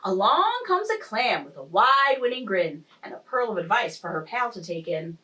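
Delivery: lilting rhymed storytelling; expressive story-time reading; picture-book narration. A narrator's reading. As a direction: read the rhyme aloud to young children. Reads picture book aloud.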